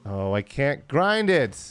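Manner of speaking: loud, drawn-out exclamation; frustrated cry. Real, not acted. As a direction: cry out in frustration, pitch rising high on the last words. Frustrated at failing in game.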